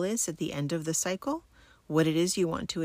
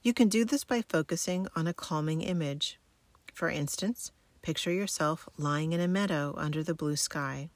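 sleep story narrator. Acted. Guides military sleep method relaxation.

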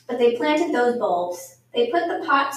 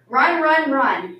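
first words raised, last falling away; reading out words; 2 semitones higher, 5 dB louder, much slower than usual. A narrator's reading. Teacher reading a book's words to seated children, read-aloud delivery. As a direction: read it out as a line from a book. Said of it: "It says".

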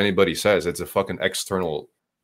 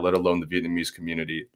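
fast, laughing through the end of the line; laughing while still ranting; 4 semitones lower, 4 dB quieter, much faster than usual. Real, not acted. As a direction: crack up mid-rant.

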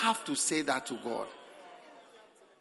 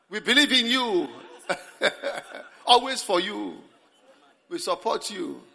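fawning praise. Retold or imitated. Congregation flattering the preacher with eager praise. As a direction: gush your loyalty to win favour. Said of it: "You start singing praises".

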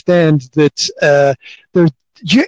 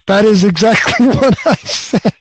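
laughing; 3 semitones higher than usual. Real, not acted. Laughs confirming what he said.

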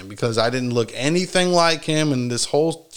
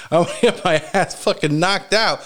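laughing; 4 semitones higher than usual. Retold or imitated. Retelling dread of a beating.

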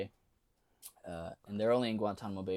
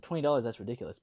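indignant; 3 semitones higher, 6 dB louder, faster than usual. Retold or imitated. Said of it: "I said".

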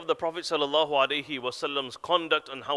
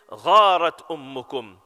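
composed calm; 3 semitones lower, 6 dB louder, slower than usual. Retold or imitated. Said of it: "very composed".

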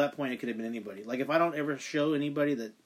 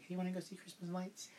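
softer, laughing sister voice; higher, laughing impression of the sister; laughing imitation; 5 semitones higher, 12 dB quieter than usual. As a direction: mimic her sweetly while giggling. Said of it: "my poor sister's like".

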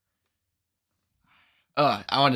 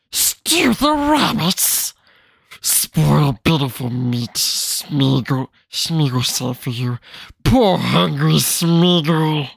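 Gollum. Acted. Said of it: "my best Gollum voice".

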